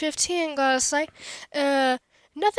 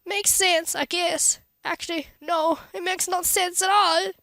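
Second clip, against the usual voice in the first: present self voice; 5 semitones higher than usual. Acted. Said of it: "present self is me".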